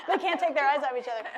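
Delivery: laughing through the words; giggling while teasing the pair. Real, not acted. Laughing at a couple.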